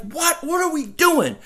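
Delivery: high, disbelieving mock outrage; incredulous outrage. Fan mocking his own outrage at the team's moves, high and disbelieving. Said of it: "I was pissed".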